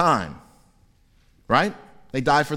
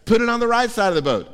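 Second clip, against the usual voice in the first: Jesus commanding; 8 semitones higher, faster than usual. Retold or imitated. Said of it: "So Jesus says".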